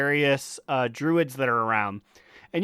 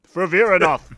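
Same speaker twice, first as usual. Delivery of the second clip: wearing a retainer; 3 semitones higher, 5 dB louder than usual. Retold or imitated. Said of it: "I had my retainer in".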